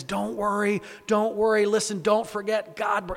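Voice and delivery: rally a frightened people with reassurance. Acted. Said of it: "he rallies them".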